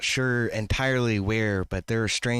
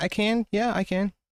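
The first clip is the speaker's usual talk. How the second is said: small piping voice, much higher pitch; 11 semitones higher than usual. Storyteller voicing a halfling who pipes up to answer, in a piping halfling voice. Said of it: "the halfling kind of pipes up a little bit".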